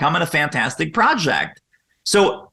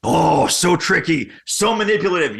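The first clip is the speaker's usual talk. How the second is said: sarcastic. Real, not acted. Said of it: "sarcastic about tricky questions".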